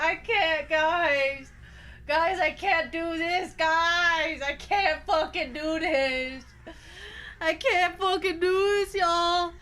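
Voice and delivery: slow, half-laughing whimper; whimpering give-up. Real, not acted. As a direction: plead that you can't go on. Overwhelmed, whimpering laugh-cry.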